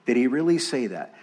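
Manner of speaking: understated, quick incredulous question; mock disbelief. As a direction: lightly scoff in disbelief, quickly. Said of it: "it was in that kind of tone".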